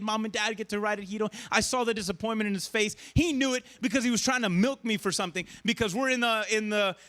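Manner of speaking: ordinary delivery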